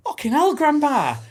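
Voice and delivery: high, loud mock outcry, laughing; retold shocked yell while laughing; shocked outburst. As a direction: yelp it out, half laughing, at grandma. Shocked reply to grandma, retold.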